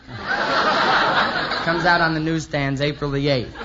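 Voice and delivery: words squeezed out through laughter, slow; giggling while plugging the magazine; laughing through the line. Real, not acted. The speaker plugs the magazine cover, laughing through it.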